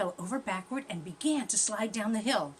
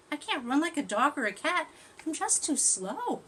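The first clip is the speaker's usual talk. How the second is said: higher, louder lament of a small tortoise; sorry little tortoise; 7 semitones higher, 6 dB louder than usual. Acted. Tortoise laments being slow.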